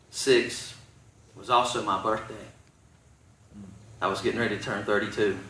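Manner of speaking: low, soft storytelling with long pauses; subdued testimony. Real, not acted. Preacher telling church of the day he refused, subdued. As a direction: recount it quietly, letting pauses sit.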